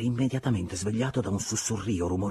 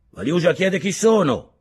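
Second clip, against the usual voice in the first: voce rauca; 11 semitones higher, 10 dB louder than usual. A narrator's reading. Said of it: "una voce rauca chiede da sopra".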